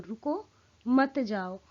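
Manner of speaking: "रुको," with a rise, a short break, then "मत जाओ"; pause after stop. Shown as a demonstration. Teacher repeating the stay reading, break after "रुको". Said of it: "मैं रुकने के अर्थ में कह रही हूँ".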